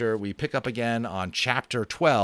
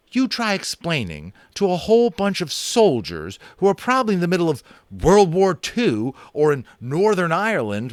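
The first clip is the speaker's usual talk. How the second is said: a brash cowboy boasting about guns; cowboy Boone; 9 semitones higher, 7 dB louder than usual. A narrator's reading. Narrator gives cowboy Boone a high boastful voice.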